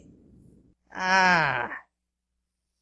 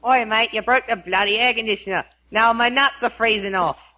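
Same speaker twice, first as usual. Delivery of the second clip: broad Aussie read-out; Australian-accented delivery; 2 semitones higher than usual. Pretend. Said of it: "phrases that people want said with an Australian accent".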